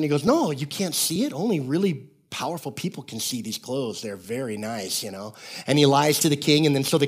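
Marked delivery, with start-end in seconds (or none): 0.2-5.3 smooth-talking swindler. Retold or imitated. Swindler fooling the king about invisible clothes, mock-confidential.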